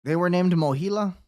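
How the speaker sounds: can't believe the name; incredulous. Real, not acted. Hearing the loan servicer's name, incredulous.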